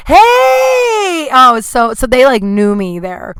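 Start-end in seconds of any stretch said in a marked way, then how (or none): 0.1-1.3 high, loud shouted hey; excited shout. Retold or imitated. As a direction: call out to a familiar face. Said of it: "the In-N-Out Burger guy goes".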